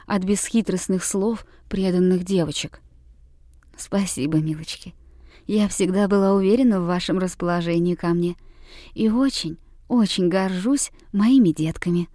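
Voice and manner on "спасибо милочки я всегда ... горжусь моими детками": soft, low, tender reply; softly spoken. Acted. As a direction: speak gently to the children. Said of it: "мягко заговорила она". (учительница мягко и тихо благодарит девочек)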